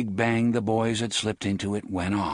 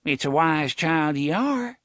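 put-on grinning boy; 7 semitones higher, 4 dB louder than usual. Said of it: "The first boy grinned".

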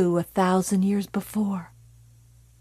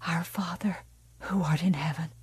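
whispered prayer; 2 semitones lower, 9 dB quieter, faster than usual. Acted. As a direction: pray under your breath. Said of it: "Margaret White whispered".

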